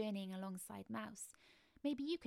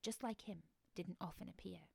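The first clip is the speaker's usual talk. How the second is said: ordinary delivery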